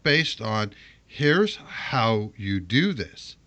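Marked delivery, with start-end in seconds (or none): 1.1-3.4 slow, mock-confident quote; mocking the guide. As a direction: parrot the video smugly. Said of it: "the whole video was based on".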